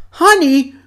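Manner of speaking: high, loud, eager cartoon bear; imitated Winnie the Pooh. Bear hears what's for lunch, eager imitation. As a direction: perk up high at the word. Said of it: "And Pooh's like".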